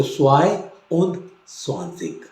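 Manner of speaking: twenty-one in German; German einundzwanzig. Shown as a demonstration. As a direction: model आइंस उंद स्वानजिक. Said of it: "twenty two होगा तो".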